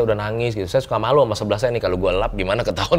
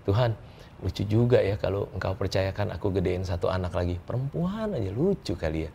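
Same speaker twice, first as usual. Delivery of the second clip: casual prayer; 6 dB quieter than usual. Retold or imitated. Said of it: "Cuman ngomong gitu".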